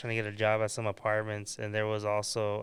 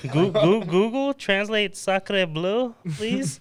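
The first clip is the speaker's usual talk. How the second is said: commanding the phone; 9 semitones higher, 7 dB louder, much slower than usual. Real, not acted. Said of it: "talking to a phone".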